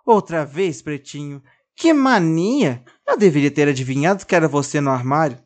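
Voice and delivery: annoyed mild reproach; scolding. Acted. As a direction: tell the doll off again. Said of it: "brigando com o boneco".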